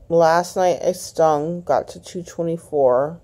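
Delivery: speaking around a stiff, sore jaw; words slightly slurred by jaw pain; talking funny from sore jaw. Real, not acted. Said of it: "sorry I'm talking funny".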